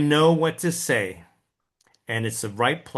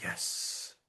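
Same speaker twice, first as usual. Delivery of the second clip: hushed, relieved thank-you; whispered relief; 13 dB quieter than usual. Retold or imitated. Relieved the cold call went unanswered, whispering. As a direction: breathe it out like a secret prayer.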